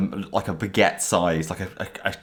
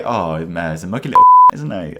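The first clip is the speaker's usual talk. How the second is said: laughing mock gossip, louder at end; 9 dB louder than usual. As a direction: giggly fake interview answer. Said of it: "What do you think of Ollie?".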